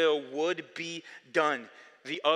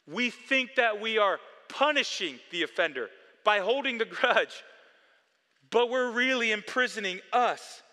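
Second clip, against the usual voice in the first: loud, rising sermon climax, higher; full-force preaching; 3 semitones higher, 4 dB louder than usual. Acted. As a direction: preach it hard to the church.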